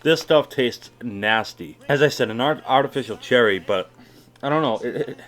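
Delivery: talking with a lip full of dip. Real, not acted. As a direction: speak round a wad of tobacco in the lip. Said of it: "I almost just swallowed the fucking spit".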